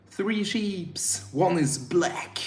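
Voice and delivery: unvoiced whispered aside. Real, not acted. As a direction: drop to a whisper. Quick aside about sheep.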